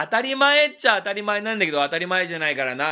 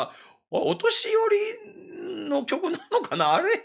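puzzled listener; 12 semitones higher, much slower than usual. Retold or imitated.

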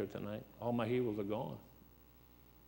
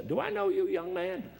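raised, higher judge asking; judge's voice; 7 semitones higher, 3 dB louder, slower than usual. Retold or imitated. Judge recognizing him in court, raised higher voice. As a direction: play the curious judge.

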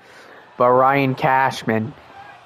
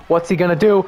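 rising excitement; 3 semitones higher, faster than usual. Real, not acted. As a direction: build the anticipation up. Repeated question building suspense.

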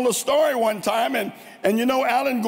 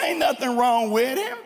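country talk; 2 semitones higher than usual. Shown as a demonstration. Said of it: "I can talk like that".

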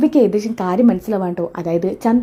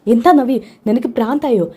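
alarmed outburst; 3 semitones higher than usual. Acted. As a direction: stop her in alarm. Adarsh stops Navya's attack.

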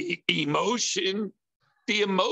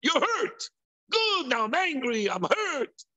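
tempting heart voice; 9 semitones higher than usual. Retold or imitated. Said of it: "the heart goes and says".

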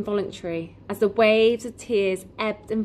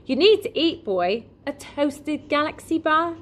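kindly shopkeeper voice; 8 semitones higher, 3 dB louder than usual. Acted. Raj offers breakfast.

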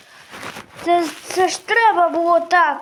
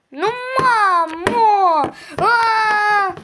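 slow, dragged-out whine; whining kid; 3 dB louder, much slower than usual. Acted. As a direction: whine like a sulky child. Kitten whines at mother.

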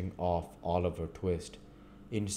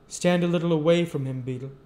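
higher, firm judge voice; stern old magistrate; 10 semitones higher, 7 dB louder, faster than usual. Acted. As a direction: order the beadle aside. Second magistrate speaking.

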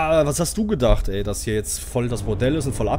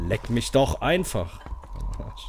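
slow drawn-out curse; much slower than usual. Real, not acted.

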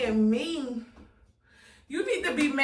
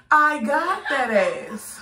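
slow, louder, rising gloat on "I got that ass"; drawn-out gloat; 4 dB louder, slower than usual. Real, not acted. Prankster rubbing it in to viewers, slow and louder.

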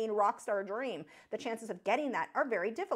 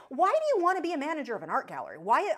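louder, fast, exasperated questioning; angry rant; 4 semitones higher, 4 dB louder, faster than usual. Real, not acted. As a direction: push back, fed up and incredulous. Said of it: "I sound like I'm ranting at you".

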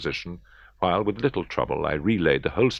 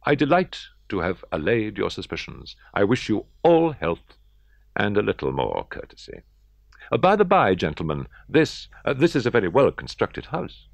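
reckless triumph; 5 semitones higher, 4 dB louder than usual. Acted. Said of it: "I said at last as the party ascended".

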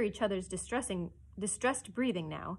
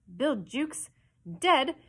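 higher, startled questions; startled cry; 6 semitones higher, 6 dB louder, slower than usual. A narrator's reading. Pirates learn of Jukes's death, startled. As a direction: blurt it in shocked disbelief. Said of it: "cried the startled pirates".

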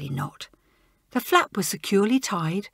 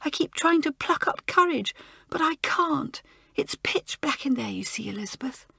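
upset schoolgirl; 7 semitones higher than usual. Acted. Joan voiced, upset.

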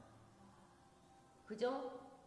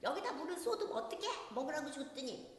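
much higher, louder exasperated mock outburst with a laugh; mock angry mother; 9 semitones higher, 4 dB louder, faster than usual. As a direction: play the frazzled mum yelling over spilt water. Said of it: "막 화를 내면서". (물 쏟은 아이에게 화내는 엄마 흉내)

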